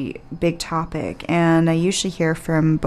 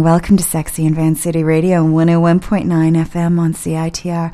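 louder, sultry radio host delivery; sexy radio voice; 5 dB louder than usual. Acted. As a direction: purr it like a late-night host. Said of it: "using my sexy radio voice right now".

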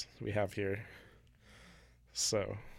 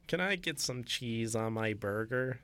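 mock American accent, slow; lightly put-on American accent; a hint of a slow American drawl; slower than usual. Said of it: "that's my American accent".

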